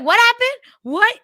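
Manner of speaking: loud, high startled shout; loud as hell. Retold or imitated. Stepdad blurting out when nudged, loud and high. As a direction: bark it out like a clueless dad. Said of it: "like, loud as hell".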